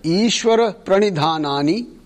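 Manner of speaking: Ishvara Pranidhanani spoken word by word, rising; staccato. Shown as a demonstration. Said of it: "you repeat after me one word at a time".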